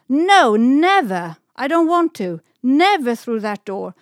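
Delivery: fearful shout. A narrator's reading. Stella cries out in fear at going through the door, terrified shout. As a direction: scream it out in terror. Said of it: "shouted Stella with fear".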